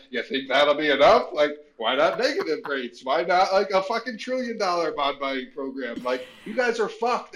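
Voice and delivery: high sarcastic taunt; mock the Fed with a smirk; mocking sarcasm. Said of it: "be like".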